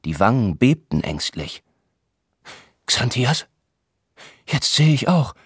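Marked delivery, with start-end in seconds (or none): 2.8-5.3 higher, slow hammed-up fright; mock terror. Herr August plays the frightened god for his listeners, hammed-up terror. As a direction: act out horror at a monster. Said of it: "Sein Mund verzog sich voller Schrecken".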